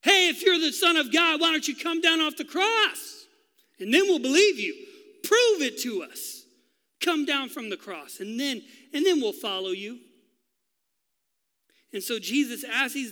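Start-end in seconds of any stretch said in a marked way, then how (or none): 0.0-10.0 loud, high jeering shout; mocking shout. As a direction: taunt him from below. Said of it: "they're still mocking him".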